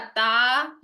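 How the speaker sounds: ता with a light open a; light ता sound; thin taa. Shown as a demonstration. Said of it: "ये भी बारीक हर्फ है".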